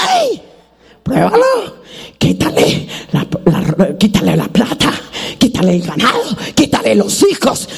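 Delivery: a hint of a taunting Satan; voicing Satan. Preacher voicing Satan daring God, lightly taunting. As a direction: sneer it like the tempter. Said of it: "Cuando Satanás dijo".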